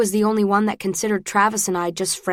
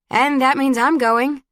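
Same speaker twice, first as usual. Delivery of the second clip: expectant; 6 semitones higher, 4 dB louder, slower than usual. A narrator's reading. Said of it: "looking expectantly at Travis".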